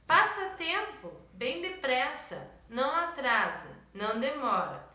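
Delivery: rhythmic, ticking poem recital; expressive poetry reading for a class. Acted. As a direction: read it like a clock keeping time. Teacher reads poem aloud.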